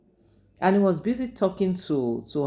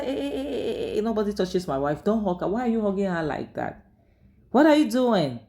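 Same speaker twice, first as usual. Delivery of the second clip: furious high shout at his wife's brother; angry yelling husband; 6 semitones higher than usual. Retold or imitated. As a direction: bark it at them like an outraged, possessive husband. Jealous husband yells at siblings.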